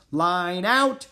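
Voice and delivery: high, loud call, rising at the end; shouted command. A narrator's reading. Annie commanding the dogs, shouted command. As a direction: order the team to line up. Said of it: "she shouted".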